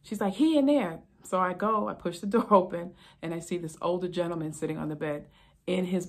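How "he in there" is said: a higher, louder angry snap of a wife; wife at the sink snapping at the officer; upset wife. Retold or imitated. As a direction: blurt it out annoyed without turning around.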